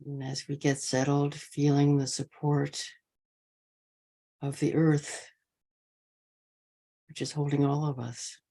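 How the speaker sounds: measured meditation guidance with long pauses between phrases; guided meditation. Real, not acted. Teacher easing an online sangha into posture, guided meditation. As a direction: settle the group gently, leaving space after each phrase.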